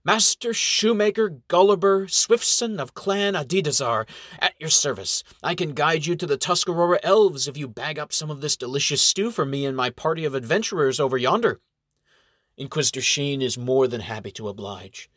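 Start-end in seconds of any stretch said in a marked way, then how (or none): 0.0-11.6 put-on sly old elf. Elf introducing himself grandly.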